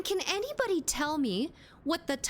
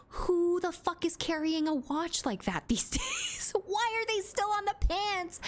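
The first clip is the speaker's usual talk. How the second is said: high, incredulous outburst with laughter; amused disbelief; 8 semitones higher than usual. Real, not acted. Streamer baffled by watch pockets, amused disbelief. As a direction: pitch climbs in baffled protest.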